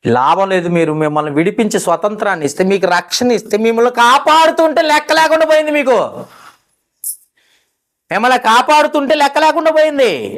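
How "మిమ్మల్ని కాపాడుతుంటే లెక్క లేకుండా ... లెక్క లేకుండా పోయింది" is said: much higher scolding preach; rebuking preaching. Real, not acted. Preacher scolding ungrateful listeners, higher rebuke. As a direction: scold the people from the pulpit.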